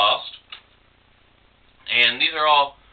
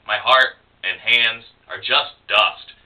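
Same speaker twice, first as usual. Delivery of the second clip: measured, even poem recital; understated spoken-word reading; poetry reading. Acted. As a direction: read it image by image with small pauses. Reads closing poem aloud.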